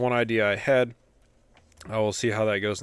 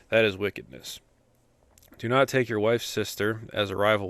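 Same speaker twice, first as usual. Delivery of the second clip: scripture reading. Acted. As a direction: read the commandments steadily, like a lesson in church. Reads Leviticus aloud.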